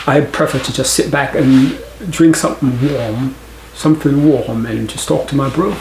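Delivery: a lightly put-on London British accent, laughing at the end; mock a London British guy chilling with his bro. Shown as a demonstration. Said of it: "I'd be like".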